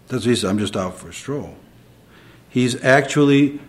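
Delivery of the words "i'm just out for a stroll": mock innocent. Mocking the devil's excuse.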